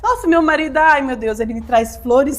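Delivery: put-on rosy bragging; mock gushing. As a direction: sing the praises of a fake perfect family. Mocking fake rose-coloured family life. (elogio exagerado, em tom de deboche)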